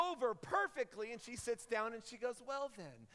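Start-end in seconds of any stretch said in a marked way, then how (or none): 2.5-3.1 put-on light British accent, little old lady; a hint of British grandma accent. British missionary settling into her chair, mild British accent. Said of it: "in her little British accent".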